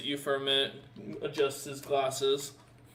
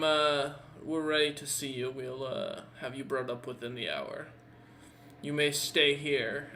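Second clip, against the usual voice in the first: lightly voiced, composed captor with a smile; game master as a courteous captor, measured; smiling captor; 2 semitones higher than usual. Captor telling the prisoner to wait, lightly smiling courtesy. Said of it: "He smiles and goes".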